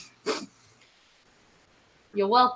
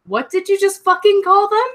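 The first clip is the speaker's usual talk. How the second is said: retold indignant demand; 5 semitones higher, 4 dB louder than usual. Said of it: "all you hear on the other side".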